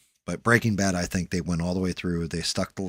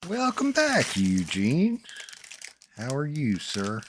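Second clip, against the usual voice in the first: bright high-pitched welcome, much higher than usual; high greeting voice; 7 semitones higher, 3 dB louder, slower than usual. Real, not acted. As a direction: greet the newcomer in a high sing-song voice. Greeting someone arriving, high voice.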